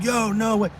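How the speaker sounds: high-pitched disbelief, retold; mock astonished exclamation; amazed fan. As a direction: imitate a fan who can't believe his eyes. Imitating amazed fan spotting him.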